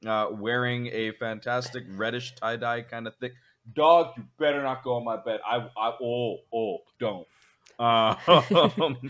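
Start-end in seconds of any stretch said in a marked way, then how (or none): 3.7-7.3 loud scolding call; sharp call to the dog. Real, not acted.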